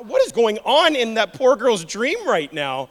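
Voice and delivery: bewildered dad. Retold or imitated. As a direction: wonder aloud at the nightmare. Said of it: "And I'm like".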